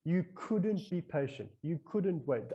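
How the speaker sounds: slow, measured self-scolding; retold guilty scolding, held back in volume; berating inner voice. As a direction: berate yourself, spacing out each accusation. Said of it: "I was berated".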